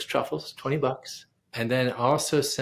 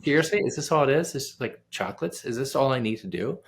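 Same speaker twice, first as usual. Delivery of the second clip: incredulous; 3 semitones higher than usual. Retold or imitated. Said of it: "I'm like".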